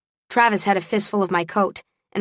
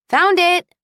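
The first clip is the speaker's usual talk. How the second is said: bright triumphant call, much higher and louder; triumphant found-it; excited call; 11 semitones higher, 6 dB louder than usual. Acted. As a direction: announce the find with a burst of relief. America returns with the bag.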